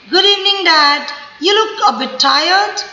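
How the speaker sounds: gently notice dad's tiredness; caring child. Shown as a demonstration. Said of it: "See my tone, my stress". (थके पिता से बच्चा प्यार से, धीरे)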